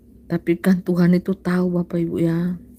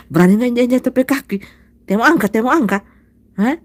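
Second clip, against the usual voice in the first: rough Sulawesi; 4 semitones higher, 4 dB louder, faster than usual. Shown as a demonstration. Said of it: "Orang Sulawesi kasar".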